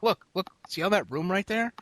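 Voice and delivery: high, exasperated pointing-out; showing people the open room beside him; exasperated retelling. Retold or imitated. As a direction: spell it out to them, fed up. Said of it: "I'm like".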